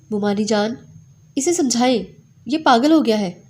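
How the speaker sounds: rising angry appeal, loud at the end; angry complaint. Acted. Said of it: "وہ غصے میں بفری ہوئی تھی".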